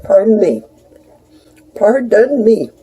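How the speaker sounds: talking through a mouthful of cookie; mouth full. Real, not acted. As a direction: speak around a bite. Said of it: "I was raised not to talk with my mouth full".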